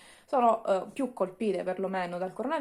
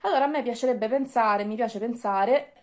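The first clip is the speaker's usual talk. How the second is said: normal talking voice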